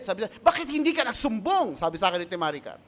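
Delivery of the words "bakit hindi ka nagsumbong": higher-pitched, mock-indignant scolding; retold angry outburst, pitched up; angry sister quote. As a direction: act out an angry older sister demanding an answer. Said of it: "si Ate Maricar galit na galit".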